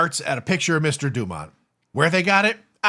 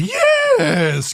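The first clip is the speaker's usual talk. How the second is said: slow, comic drawl with long drawn-out "yes". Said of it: "the guy who did that fucking voice".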